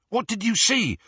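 sharp, high urgent ask; urgent question. A narrator's reading. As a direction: press him for an answer. Ron presses Harry.

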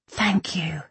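hushed, whispery thanks; gentle, breath-light appreciation. A narrator's reading. Irene softly thanks Kai.

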